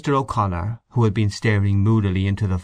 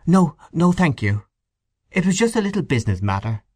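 velvety voice; 7 semitones higher than usual. A narrator's reading. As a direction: politely wave it away, smooth and quick. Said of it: "velvety voice".

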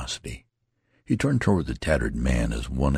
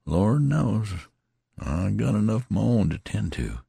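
touch of despair; 7 semitones higher than usual. A narrator's reading. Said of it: "a little accent of despair in his voice".

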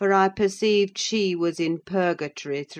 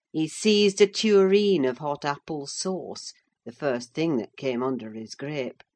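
ordinary delivery, nothing marked

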